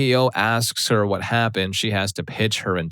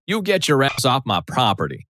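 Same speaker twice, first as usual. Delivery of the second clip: explosive mom; 6 semitones higher than usual. Retold or imitated. Mom ordering boyfriend off her property, mock furious shout. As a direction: blow up and order him off. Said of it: "M, explosion".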